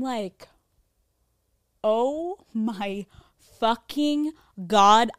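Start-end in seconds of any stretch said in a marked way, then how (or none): 1.8-5.1 slow, dragged-out horrified moan; mortified groan.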